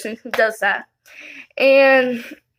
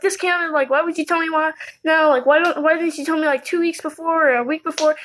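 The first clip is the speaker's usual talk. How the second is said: mild mock yell, pitched higher without the volume; retold angry yelling; 4 semitones higher than usual. Retelling an angry phone call to mom, mock yelling. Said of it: "I was yelling at her".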